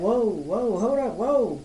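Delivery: swooping, drawn-out protests; mock startled backpedalling. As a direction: imitate someone caught out and backing off. Imitates confronted people backing off.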